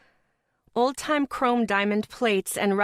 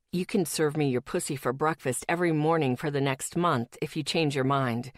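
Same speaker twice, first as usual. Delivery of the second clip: lightly voiced boyfriend; 4 semitones lower than usual. Boyfriend's texts.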